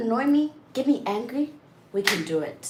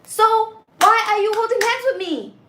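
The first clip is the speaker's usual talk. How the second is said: exasperated laughing rant; 10 semitones higher, 9 dB louder than usual. Real, not acted. Heated rant at her partner.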